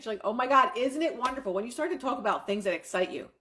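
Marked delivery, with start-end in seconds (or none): 0.2-1.5 excited. Shown as a demonstration. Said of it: "You start to get excited".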